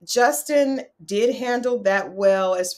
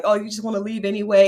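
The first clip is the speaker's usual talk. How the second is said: whiny accusation; faster than usual. Retold or imitated. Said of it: "He's like".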